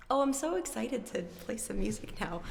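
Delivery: quick excited whisper; excited whisper to chat. Real, not acted. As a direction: whisper it fast like a secret.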